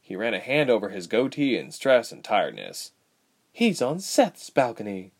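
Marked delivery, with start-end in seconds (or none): 3.5-5.1 bitter. Acted. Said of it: "she thought bitterly".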